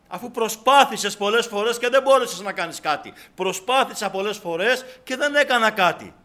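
loud, driving exhortation; fervent, insistent sermon delivery; full-force preaching. Real, not acted.

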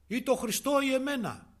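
high, loud demand; acted ultimatum. Husband demanding his wife choose, acted forceful ultimatum.

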